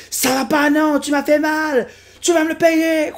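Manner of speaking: high, loud angry protest; angry cartoon complaint. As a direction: yell back, hurt and furious. Personnage blessé menace. (protestation aiguë et fâchée)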